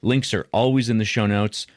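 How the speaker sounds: scripted podcast ad read; podcast promo read. Acted. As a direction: pitch the show's support options to listeners. Reads show support promo.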